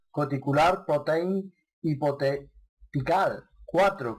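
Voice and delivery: "Corticular Protein Hypothetical" sounded out slowly with Spanish sounds; slow, labored Spanish reading of "Corticular Protein Hypothetical"; clumsy English pronunciation. Real, not acted. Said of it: "perdonadme por mi mala pronunciación".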